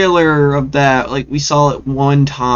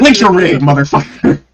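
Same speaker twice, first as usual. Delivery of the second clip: mock tough-guy yell; 3 semitones higher than usual. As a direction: bark it like a movie thug. Acting Hammond yelling at Isaac.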